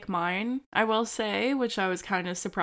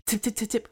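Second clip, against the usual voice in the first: imitating dog paws; 3 semitones higher, faster than usual. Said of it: "They're just, like".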